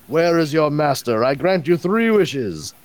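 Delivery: slow, grand genie voice; grandly granting a wish. Pretend. Power battery as wish genie.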